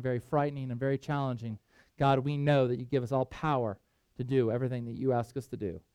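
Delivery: softly spoken, low earnest prayer. Real, not acted.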